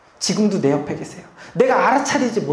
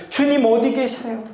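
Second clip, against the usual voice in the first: mock desperate cry; 4 semitones higher than usual. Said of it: "막 부르짖는 거죠".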